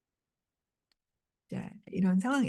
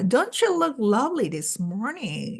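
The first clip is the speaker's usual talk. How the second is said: mock-admiring compliment, drawn out slowly; slow, syrupy dig passed off as praise; sarcastic; much slower than usual. Townswoman needling a neighbour in her nightgown, sarcastic. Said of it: "비아냥거리면서 하는 말입니다".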